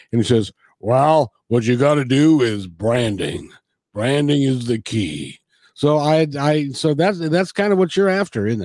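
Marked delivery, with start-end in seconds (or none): 0.8-5.4 put-on great big deep radio announcer voice. Retelling what an afternoon disc jockey told him, in a great big deep voice. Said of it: "in a great big deep voice".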